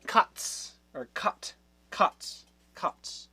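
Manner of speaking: Katz whispered as KUTS; whispered sounding out. Shown as a demonstration. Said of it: "This looks like it".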